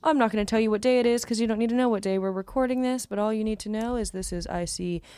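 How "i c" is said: smooth radio host sign-off. Acted. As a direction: announce it like late-night radio. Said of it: "Pretty good radio voice".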